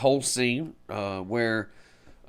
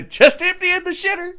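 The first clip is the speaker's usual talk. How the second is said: cheerful redneck voice, pitched way up; Cousin Eddie impression; 9 dB louder than usual. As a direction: ham up the dopey cousin. Quoting Randy Quaid's character.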